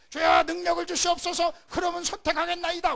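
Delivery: high, loud begging prayer to God; pleading prayer. Acted. Preacher voicing the congregation's prayer, high loud pleading. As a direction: cry out to the Lord, begging for power first.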